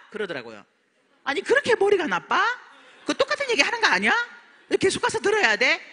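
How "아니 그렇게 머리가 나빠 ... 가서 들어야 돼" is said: mock scolding. Husband mocking her seminars.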